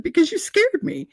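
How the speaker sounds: laughing back at God; laughing protest. Retold or imitated. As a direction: protest through giggles. Retorting while laughing.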